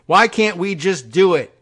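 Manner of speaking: hammed-up Trump sulk; petulant Trump. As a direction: whine like a spoiled child. Repeating Trump quote.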